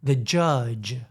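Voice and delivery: "judge" with long voiced J sounds; careful pronunciation. Shown as a demonstration. Demonstrating the lesson, voiced J. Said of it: "versus the j".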